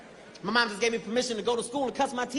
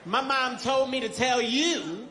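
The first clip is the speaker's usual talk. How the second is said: slow buildup; much slower than usual. Retold or imitated. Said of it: "I said".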